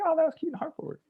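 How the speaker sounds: breathy whispered aside, high and hushed. Retold or imitated. Whispering to his friend during the sweet poetry reading. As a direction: lean in and whisper it as a private joke.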